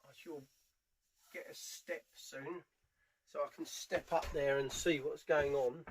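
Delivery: usual speaking voice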